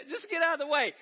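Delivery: laughing through the line, still high; laughing repeat. Retold or imitated. Preacher repeating the road rage, laughing at himself. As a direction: say it again, cracking up.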